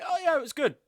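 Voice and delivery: high, lifeless mock answer; bored friend reply. Friend asked about the movie, high mock-bored reply.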